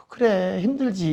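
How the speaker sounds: softly voiced, understanding parent; a touch of soothing sympathy; sympathetic parent. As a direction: gently acknowledge the child's struggle. Parent soothing a struggling child.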